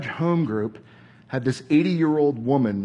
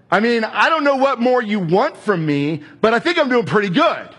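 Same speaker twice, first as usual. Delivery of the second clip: defensive protest. Retold or imitated. Student to mentor Martha, rising defensive protest. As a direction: argue your case harder and harder.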